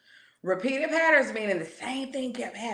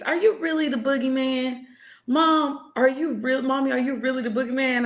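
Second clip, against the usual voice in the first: daughter's voice; 4 semitones higher than usual. Retold or imitated. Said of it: "Gigi been asking me".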